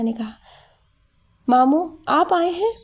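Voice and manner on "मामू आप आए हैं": put-on child voice. Child calls out to uncle.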